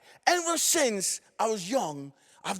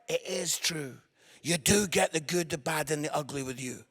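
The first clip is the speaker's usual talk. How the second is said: flat wife voice; 6 semitones lower than usual. Retold or imitated. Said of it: "my very own wife said".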